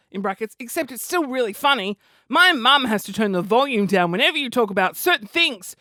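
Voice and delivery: a hint of a ten-year-old fan; lightly voiced child. Ten-year-old writing to a comedian, lightly voiced. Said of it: "I'm ten".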